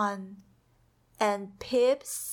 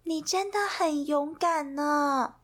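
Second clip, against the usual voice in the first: comforting; 5 semitones higher than usual. Acted. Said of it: "安慰说".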